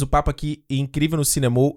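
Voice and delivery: slurred words from a burned tongue. Real, not acted. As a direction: talk around a blistered tongue. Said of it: "olha aí como eu tô falando já".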